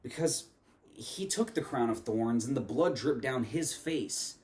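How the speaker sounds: measured poetic recitation with deliberate pauses; spoken word poem. Acted. Reciting a poem on religion and Jesus to viewers, spoken word delivery. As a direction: perform it line by line, leaning on the key words.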